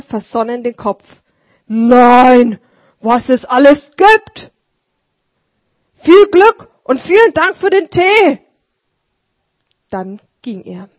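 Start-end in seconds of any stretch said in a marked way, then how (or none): 1.7-8.4 loud, high, marvelling; hearty voiced old street sweeper; amazed old sweeper. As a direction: wonder aloud then thank warmly.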